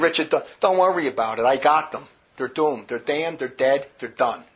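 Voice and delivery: low, soft, final voice of God; deep and quiet, each word settled; God's voice. Retold or imitated. God calming Richard about the damned, low and quiet.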